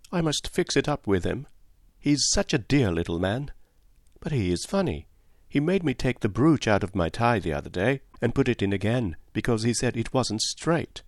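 a hint of a lively young girl; young Cynthia. Cynthia voiced by narrator.

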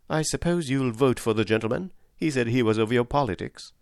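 a gentle hint of a young wife reporting news; Polly's voice. Polly asks her husband.

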